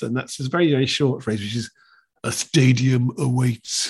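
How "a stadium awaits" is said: slow, weighty rugby commentator line; Eddie Butler impression. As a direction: drag out each word like a grand TV intro. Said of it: "one line I can think of that Eddie Butler is".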